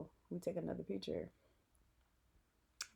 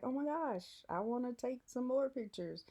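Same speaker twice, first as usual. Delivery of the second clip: giddy fangirl; 6 semitones higher than usual. Retold or imitated. Excited fangirl quote.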